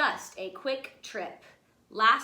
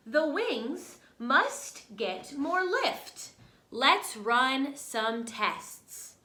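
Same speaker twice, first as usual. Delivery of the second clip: Orville quoting; 2 semitones higher, much slower than usual. Acted. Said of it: "And Orville says".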